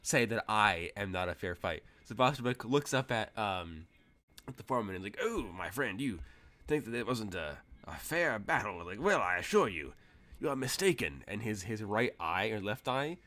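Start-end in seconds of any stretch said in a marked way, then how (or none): 0.0-1.8 loud, indignant challenge; Bosterbrook insulted. Acted. Old wrestler to foreman who doubted him, loudly insulted. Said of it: "Bosterbrook is now insulted". 5.2-11.2 lightly voiced affronted old wrestler; mildly indignant, with emphatic swooping pitch; Bosterbrook. Old wrestler correcting the foreman, a touch insulted.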